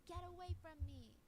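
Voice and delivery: retold screaming. Girlfriend yelling at boyfriend beside the car, mild mock yell. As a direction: push him off, half shouting. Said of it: "she's screaming".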